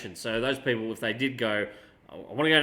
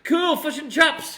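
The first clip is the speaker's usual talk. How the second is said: slow, high, exaggerated Kiwi vowels in "chops"; attempted New Zealand accent; 13 semitones higher, 7 dB louder, slower than usual. Australian trying to sound Kiwi, a hammed-up New Zealand accent. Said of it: "I can't do a proper New Zealand accent".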